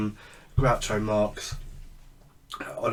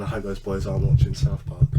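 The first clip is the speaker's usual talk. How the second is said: mildly raised voice, imitating a mother calling out; lightly mock a parent's shout, louder toward the end; retold mum's shout; 6 dB louder than usual. Son retelling mum going up to bed, mild mock shout.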